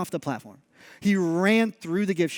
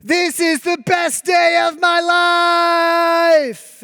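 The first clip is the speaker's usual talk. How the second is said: high mock shout of delight; imagined joyful scream; 9 semitones higher, 6 dB louder than usual. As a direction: shout it like a thrilled kid on a ride. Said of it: "I hear these screams to mean".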